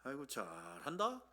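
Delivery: low, soft mock praise with drawn-out 잘; understated sneering "well done"; mildly sarcastic. Shown as a demonstration. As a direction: praise them with dry sarcasm. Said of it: "흔히 이렇게 약간 비꼬듯이 할 때".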